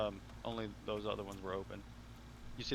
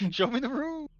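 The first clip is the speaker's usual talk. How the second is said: laughing; 14 semitones higher, 6 dB louder than usual. Retold or imitated.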